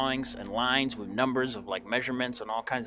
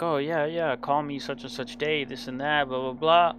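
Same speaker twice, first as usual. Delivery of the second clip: higher, breezy mock voice of an unreliable father; mocking dad's promises; 4 semitones higher than usual. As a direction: brush it off like a man who won't call back.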